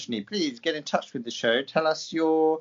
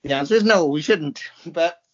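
mock American accent; 2 semitones higher than usual. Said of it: "Listen to my American accent".

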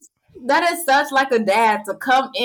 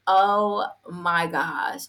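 mortified; 3 semitones lower, much slower than usual. Retold or imitated. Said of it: "And I'm like".

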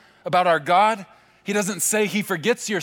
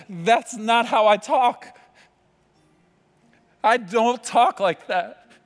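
slow, louder, higher, firm and fatherly; voice of God; 4 semitones higher, 4 dB louder, slower than usual. Retold or imitated. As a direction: declare it slowly as God correcting the lie. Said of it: "the God of the universe says".

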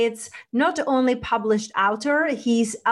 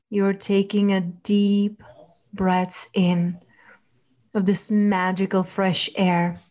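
guided meditation. Acted. Leads a relaxation visualization.

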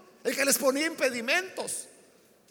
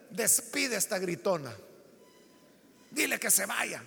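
queja cansada; 4 semitones lower, 5 dB quieter than usual. Acted. Discípulos cansados piden que la despida.

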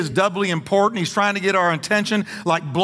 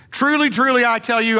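truly, truly called out high and louder; proclaimed; 5 semitones higher, 3 dB louder than usual. Acted. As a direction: sound it like a solemn herald. Pronouncing Jesus's solemn formula.

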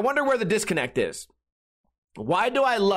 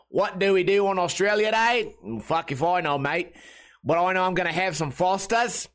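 hammed-up Aussie accent; jokey, broad Australian mate talk; funny Australian accent. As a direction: put on a comic Australian accent. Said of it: "just do a funny accent".

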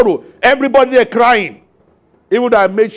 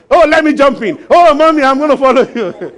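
mock mourner; 3 semitones higher than usual. Dramatic mourner at the graveside.

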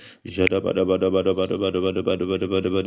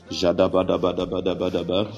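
fast flowing glossolalia prayer; speaking in tongues. Real, not acted. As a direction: rattle off tongues syllables, quickening.

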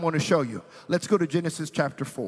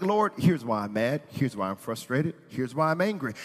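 pretend Cain; 4 semitones lower than usual. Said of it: "he could have been like".

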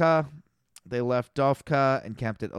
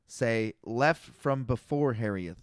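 slow, deliberate reading; 3 semitones lower, 3 dB quieter, slower than usual. Shown as a demonstration. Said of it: "I'll read it again verbatim".

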